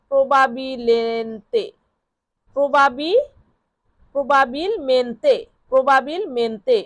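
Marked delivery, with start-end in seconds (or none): 0.1-3.3 প্রবাবিলেন্তে blended slowly, syllable by syllable; slow blending. Shown as a demonstration. Teacher to students, slowly blending the spelled word. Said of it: "Bangla উচ্চারণ লেখা আছে এখান থেকেও পড়ে নিতে পারেন".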